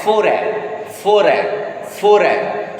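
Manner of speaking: "Foray" with an open final A sound; French pronunciation. Shown as a demonstration. Teacher drilling the vowel rule for students, "Foray" as French pronunciation. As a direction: model "Foray" separately each time, the end falling. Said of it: "O will be pronounced A".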